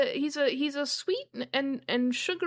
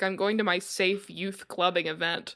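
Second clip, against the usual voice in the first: lightly voiced gay Toronto youth; a hint of a queer Toronto teen, slightly lower; 5 semitones lower than usual. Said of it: "That is an extremely "I'm gay and live in Toronto" voice".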